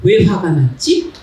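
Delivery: slow, thoughtful self-questioning; reflective question. Shown as a demonstration. Speaker calmly asks herself why she is angry, slow and thoughtful. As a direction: ask it gently and slowly, wondering. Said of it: "이게 아니라".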